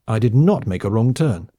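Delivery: put-on indignant drunk retort, stress on not; angry. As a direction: snap back that it wasn't her fault. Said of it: "the woman answered angrily".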